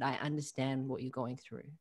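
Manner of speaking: softly spoken reassurance; reassuring. Retold or imitated. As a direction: soothe with quiet sincerity. Coach comforting client, retold.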